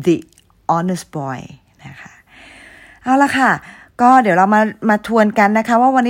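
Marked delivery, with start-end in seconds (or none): 0.1-1.4 put-on "the" as dee, set apart before "honest boy". Shown as a demonstration. Teacher repeating the example for students, "the" as dee before "honest". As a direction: pronounce "the" with ee, pause, then h-less "honest". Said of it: "แต่ออกเสียงเป็นตัว O แทน".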